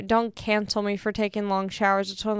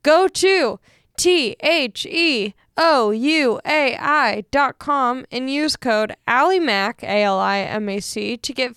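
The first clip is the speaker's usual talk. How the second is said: slow spelled-out ad read, retake; 2 semitones higher, 3 dB louder, slower than usual. Shown as a demonstration. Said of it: "Let me start that over".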